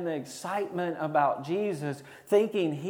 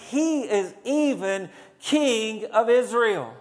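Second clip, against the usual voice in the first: raised, drawn-out proclamation; crowd's acclamation; 2 semitones higher than usual. Acted. Preacher voicing the crowd hailing Jesus, mild exultant cry. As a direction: proclaim it slowly to a whole street.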